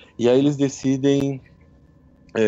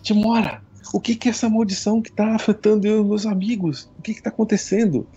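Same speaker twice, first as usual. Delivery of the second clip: pleading prayer; 8 semitones higher than usual. Acted. Jogador rezando para a deusa.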